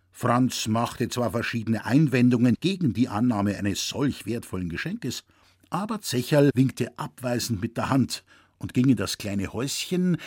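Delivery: ordinary delivery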